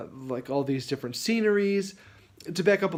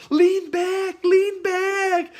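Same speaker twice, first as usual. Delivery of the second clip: higher, louder urgent call to lean back; shouted instruction; 6 dB louder, much slower than usual. Retold or imitated. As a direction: yell it across at the boy. Calling out to runaway rider.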